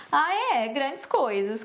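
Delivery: mock interest dropping to dismissive; schoolkid sarcasm. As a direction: imitate your unimpressed school self. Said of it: "eu falava assim na escola". (desdém irônico de escola, imitado)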